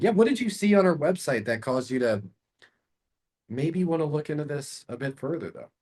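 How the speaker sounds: gently curious question. Shown as a demonstration. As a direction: ask with real curiosity. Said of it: "Notice I'm using a curious tonality".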